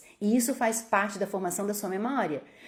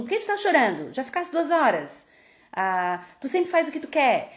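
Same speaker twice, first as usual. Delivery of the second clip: higher, exasperated scolding; impatient parent; 5 semitones higher than usual. Retold or imitated. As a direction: dismiss the crying child. Pai impaciente com choro. (pai impaciente repreendendo o choro)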